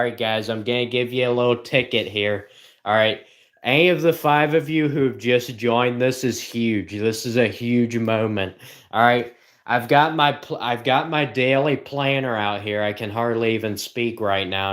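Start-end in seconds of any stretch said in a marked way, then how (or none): 3.6-12.8 a fake game-show buildup for a planner; mock excited. Vlogger hyping a daily planner to viewers, mock excited. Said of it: "I'm just so excited".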